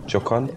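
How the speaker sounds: Joaquin said "zho-KAN", rising; Joaquin with a French-style zh and no w; unsure pronunciation. Shown as a demonstration. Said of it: "never quite know how you pronounce".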